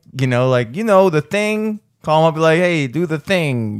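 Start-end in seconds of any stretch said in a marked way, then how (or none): 2.5-3.8 put-on old-school mafia-style mobster voice. Imagining calling him up to ask a favor; old-school mafia voice. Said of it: "like mafia shit".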